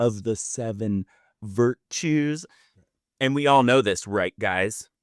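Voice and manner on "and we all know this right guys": mock angry tone of voice. Imitating a yoga teacher listing the seven houses: imitating someone speaking angrily.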